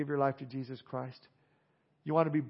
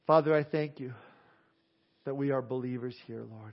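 prayer. Acted. Pastor praying over his congregation after the sermon, earnest. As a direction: pray aloud for the room, gently.

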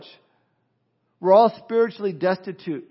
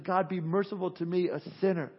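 a soft, lowered prayer for mercy; humble, quiet plea; 7 dB quieter than usual. Retold or imitated. Tax collector humbly begging God for mercy, quiet. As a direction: plead quietly like a repentant sinner. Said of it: "beat his breast and said".

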